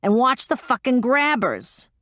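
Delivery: high, urgent yelled order; shouting. Acted. Metz yelling orders over the radio, shouting. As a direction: bark it at a pilot in danger. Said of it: "Metz shouted".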